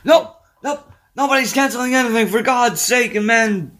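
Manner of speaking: put-on high, loud cranky old man; mock Martin yelling. Co-host plays Martin yelling at his sons from the floor, high and loud. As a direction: bellow like a grumpy injured dad.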